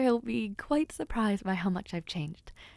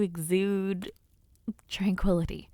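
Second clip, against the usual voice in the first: dreamy whisper; 2 semitones lower than usual. Acted. Admiring the companion's calming aura, whispered. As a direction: let the word dissolve into a whisper.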